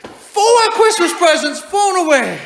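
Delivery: slow, loud, laughing through it; laughing disbelief. Real, not acted. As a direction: laugh at the absurd loss. Laughing at the disaster.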